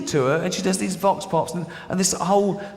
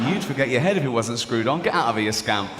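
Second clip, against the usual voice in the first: lightly voiced judge, dropping lower; indulgent judge; 3 semitones lower than usual. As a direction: scold like a judge letting him off. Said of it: "with the judge going".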